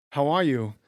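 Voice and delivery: impersonated movie-star greeting; Christopher Walken. Acted. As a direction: greet them in the actor's put-on voice. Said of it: "you're gonna do Christopher Walken".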